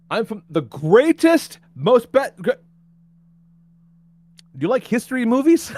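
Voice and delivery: lightly voiced driver. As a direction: draw it out like a riddle. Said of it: "he says".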